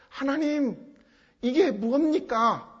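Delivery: pleading, aggrieved lament; anguished lament. Acted. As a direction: protest slowly to God in grief. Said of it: "애통해하면서 탄식하는".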